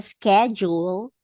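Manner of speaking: schedule with a hard sk start; American schedule. Shown as a demonstration. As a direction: say schedule beginning "sk", as in skip. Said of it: "if in the U K, ang tawag nila".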